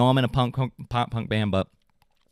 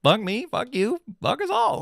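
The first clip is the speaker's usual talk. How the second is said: mock cheer; 10 semitones higher than usual. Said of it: "And it's like".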